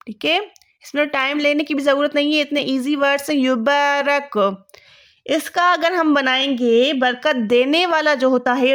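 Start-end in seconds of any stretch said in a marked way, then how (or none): 3.4-4.4 یبارک stretched out slowly, syllable by syllable; slow dictation. Shown as a demonstration. Teacher to students, slowly dictating the word. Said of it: "اب اس کا مجہول بنائیں گے یبارک".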